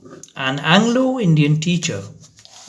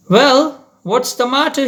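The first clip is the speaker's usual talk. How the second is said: fading anger; 10 semitones higher, 3 dB louder than usual. Acted. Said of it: "his anger giving way to concern".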